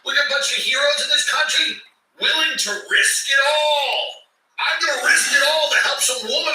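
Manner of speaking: high sarcastic hero voice; mock-heroic declaration, laughing. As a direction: ham up the noble hero. Mocking the heroes idea.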